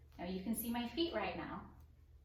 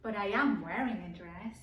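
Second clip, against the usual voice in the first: louder, stress on am; mock indignant; 7 dB louder than usual. Teacher protesting to the children in mock indignation, louder. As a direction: protest playfully, punch am.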